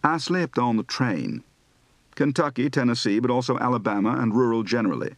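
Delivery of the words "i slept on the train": educated Southern, "slept" as "slipt"; East Coast Southern. Shown as a demonstration. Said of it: "Educated General East Coast Southern".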